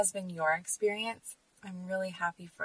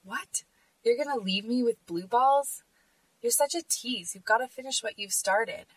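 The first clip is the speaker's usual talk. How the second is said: mock-indignant, pitched up; raised, half-mocking angry guy voice; imitating an angry guy; 5 semitones higher, 4 dB louder than usual. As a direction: play the pushy date, put out and whiny. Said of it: "he gets angry and says".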